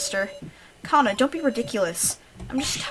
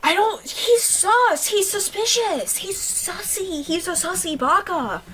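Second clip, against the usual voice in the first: very high, slow squeaky accusation; squeaky meme voice; 10 semitones higher, 4 dB louder, slower than usual. Real, not acted. Player goofing on a suspect with a squeaky meme voice. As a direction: squeal it like a cartoon.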